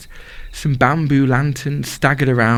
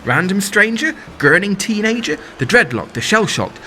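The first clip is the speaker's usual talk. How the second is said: rhythmic spoken-word list; 4 semitones higher than usual. Acted. Performer listing festival crowds, building rhythmic chant. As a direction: build the list like a rave drop.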